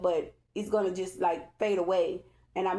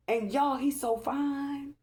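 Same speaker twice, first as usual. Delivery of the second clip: squealing high and laughing, sighing over him; giddy swooning; slower than usual. Real, not acted. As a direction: lovestruck cackling, calling him to come get her. Swooning over her destined man.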